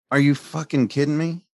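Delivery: loud, high, outraged cry; yelling at the discharge nurse in outrage; furious disbelief. Retold or imitated. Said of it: "And I got so pissed".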